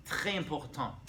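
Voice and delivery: drawn-out French pronunciation; French accent. Shown as a demonstration. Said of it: "which is French, by the way".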